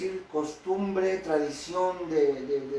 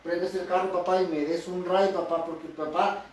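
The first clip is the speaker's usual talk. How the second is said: put-on whiny kid pleading. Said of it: "no hablan así".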